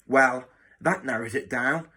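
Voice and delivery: mildly snarled sarcasm; drily mock the vague answer; sarcastic snarl. Matron humiliating the new boy, mildly sarcastic. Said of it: "she snarled sarcastically".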